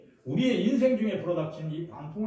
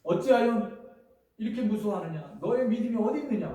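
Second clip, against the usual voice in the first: higher, louder reproach; Jesus scolding his disciples, raised voice; rebuking; 4 semitones higher, 4 dB louder than usual. Retold or imitated. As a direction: demand where their faith went. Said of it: "그랬어요".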